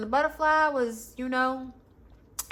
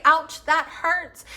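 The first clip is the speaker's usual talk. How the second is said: mock hurt voice; 4 semitones higher, 3 dB louder, much slower than usual. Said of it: "and you say".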